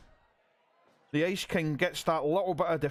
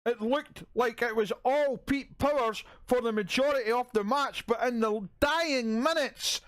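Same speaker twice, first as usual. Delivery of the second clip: excited announcer; 6 semitones higher than usual. Acted. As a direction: announce the upset like a thrilled commentator. Match ends, surprise winner announced.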